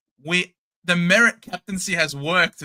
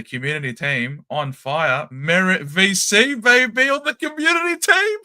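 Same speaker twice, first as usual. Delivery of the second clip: excited hype; 4 dB louder than usual. Acted. Hyping the community team captain.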